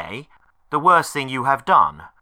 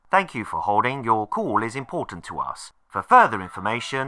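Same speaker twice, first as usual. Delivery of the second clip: phone menu voice. Acted. Automated phone menu recording.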